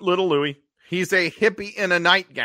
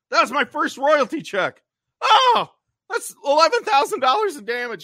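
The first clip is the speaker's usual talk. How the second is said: high, loud whiny panic; freaking out; 13 semitones higher, 6 dB louder than usual. Retold or imitated. Louis wailing over his smashed apartment, high panic. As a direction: wail over the broken things. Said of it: "He's like, freaking out".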